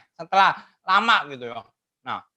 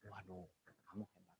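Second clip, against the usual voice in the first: praise; 10 semitones lower, 33 dB quieter than usual. Retold or imitated. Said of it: "kalau kita bilang".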